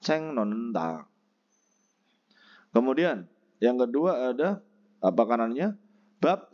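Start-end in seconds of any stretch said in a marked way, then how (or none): 0.0-1.1 slow learners' drill; model repetition. Shown as a demonstration. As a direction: ceng non nenda, steady and slow. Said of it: "Bacim T ketemu dengan N dibaca N".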